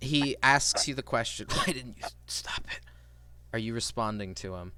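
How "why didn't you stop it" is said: breathy, hushed, whispery voice. Voicing his question to the listener in a guided scene, in a whispery voice. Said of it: "in a whispery voice".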